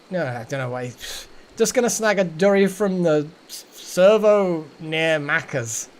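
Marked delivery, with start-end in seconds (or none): 1.6-5.9 shaky-footed try at an Australian accent, slowing on the slang; attempted Australian accent. Shown as a demonstration. Streamer trying out Aussie slang for viewers, attempted Australian accent. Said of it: "I can't do an Australian accent".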